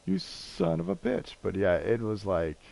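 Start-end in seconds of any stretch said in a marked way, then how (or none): 0.0-1.4 high-pitched gleeful outburst at a friend; excited disbelief. Retold or imitated. Thrilled at the free WrestleMania tickets, high excited exclaim. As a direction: squeal it in happy shock, pitched way up. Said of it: "I'm like".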